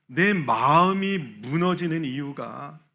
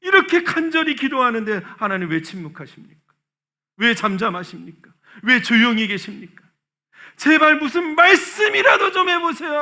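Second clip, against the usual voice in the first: desperate plea; 6 semitones higher, 6 dB louder than usual. Acted. Psalmist's desperate prayer acted out.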